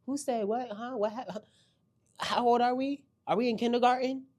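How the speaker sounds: high, rising loud disbelief; confused disbelief. Retold or imitated. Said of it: "I was confused watching the episode".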